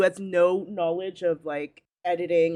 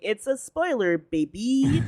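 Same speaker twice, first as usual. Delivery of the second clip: imitating Ali; 6 semitones higher, slower than usual. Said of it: "It's just Ali saying".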